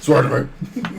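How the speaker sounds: raspy growl; Batman voice. Retold or imitated. Batman quote.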